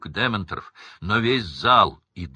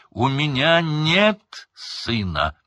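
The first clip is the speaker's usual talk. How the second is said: louder, higher, slow shout; furious repetition; 8 semitones higher, 5 dB louder, much slower than usual. A narrator's reading. Crouch repeating the denial, bulging-eyed shout. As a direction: roar the denial. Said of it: "Глаза почти вылезли из орбит".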